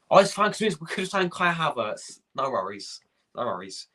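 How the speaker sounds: mock the club's excuses, falsely carefree; sarcastic mock.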